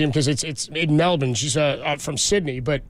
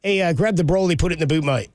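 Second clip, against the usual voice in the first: lightly imitated Australian; casual mock-Aussie phrasing; Australian accent. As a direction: quote an Aussie with a hint of the accent. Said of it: "or they'll just say".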